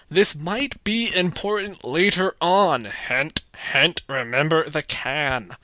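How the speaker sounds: mocking the obvious film. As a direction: ham up heavy-handed hints. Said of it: "they make a point to show you".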